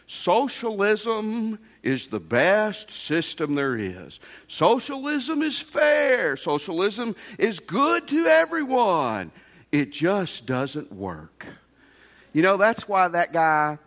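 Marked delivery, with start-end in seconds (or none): 0.1-11.5 slow, a lightly voiced professor holding forth. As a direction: lecture it slowly like a smug business professor. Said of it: "He would say".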